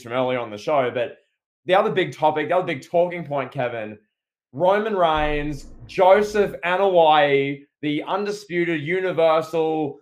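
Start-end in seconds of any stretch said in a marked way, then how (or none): 4.5-10.0 slow, drawn-out mock introduction; mock ring announcer. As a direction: announce the champion with sarcastic grandeur.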